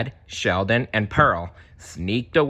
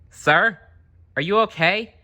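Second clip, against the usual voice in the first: high, louder cheerful voice; friendly Dory; 11 semitones higher, 4 dB louder than usual. Acted. Dory checking on the fish who bumped her. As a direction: ask kindly and brightly. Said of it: "asked the friendly blue fish".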